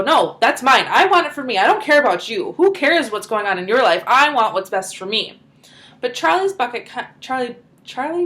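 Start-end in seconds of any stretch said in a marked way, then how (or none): 0.0-5.4 louder, mock selfish whine; greedy kids. Teacher imitates greedy ticket winners, mock loud. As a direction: play the spoilt winners, lightly. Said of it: "They're very greedy and they go".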